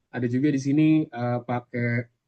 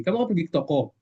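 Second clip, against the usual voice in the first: curt order in a raised tone; mildly bossy, pitched-up command; rougher, higher intonation; 3 semitones higher, faster than usual. Shown as a demonstration. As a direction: tell them off with a pushy tone. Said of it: "lebih kesar, kasar lagi tuh, lebih, lebih tinggi lagi".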